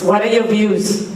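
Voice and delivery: projected question, spoken up; to someone hard of hearing. Real, not acted. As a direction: lift the voice so they catch it. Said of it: "I'm going to speak louder".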